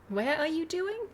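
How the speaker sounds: high, laughing stumble over the words; laughing slip. Real, not acted. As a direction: giggle through the flubbed line. Laughing stumble, then retake.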